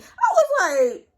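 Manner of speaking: a high, loud laugh breaking over the words; laughing disbelief. Real, not acted. Laughing at the friend's sudden attitude. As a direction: laugh in disbelief at his nerve. Shocked reaction mid-story.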